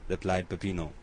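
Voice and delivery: ordinary delivery, nothing marked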